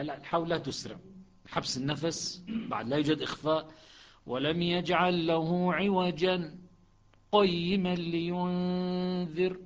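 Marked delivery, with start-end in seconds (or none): 4.3-9.6 slow recitation, clear pause after عوجا before قيما; Hafs with a clear pause. Shown as a demonstration. Teacher demonstrating Hafs's pause to students. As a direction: stop briefly on عوجا with held breath, then قيما. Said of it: "هذا حفص".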